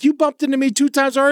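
high, fast huffy complaint; mock snooty old lady. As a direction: imitate the lady's petty grievance. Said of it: "She's like".

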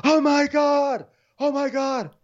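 high, drawn-out wail; hammed-up exclamation; mock shock. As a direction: squeal it out slowly in fake horror. Continuing the mock shocked reaction.

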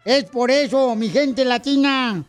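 mock politician's speech; booming balcony speech. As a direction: orate to the crowd. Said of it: "el discurso que trae don Poncho del Codo Agarrado".

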